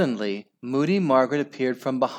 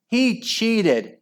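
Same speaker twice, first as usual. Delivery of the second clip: very high outraged squeal; scream; 11 semitones higher than usual. A narrator's reading. Mum accusing Henry, high scream. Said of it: "screamed Margaret's mom".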